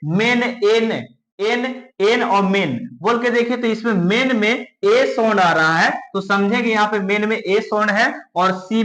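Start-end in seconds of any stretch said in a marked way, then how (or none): 0.1-2.8 "मेन" and "एन" set apart with matching vowels; rhyming sound demo. Shown as a demonstration. Teacher has pupils try saying it, sound demo. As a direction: isolate "एन" out of "मेन". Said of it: "बोल कर देखिए".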